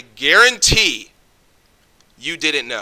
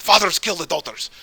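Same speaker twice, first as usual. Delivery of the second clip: higher-pitched imitated Jordanian accent; Jordanian Arab accent; 5 semitones higher than usual. Quoting an Arab friend from Jordan, in his Jordanian accent. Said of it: "Well, in his accent".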